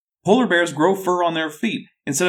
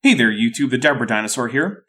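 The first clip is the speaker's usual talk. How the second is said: slightly hoarse, sore throat; talking through a sore throat; 3 semitones lower than usual. Real, not acted. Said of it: "I have a bit of a sore throat".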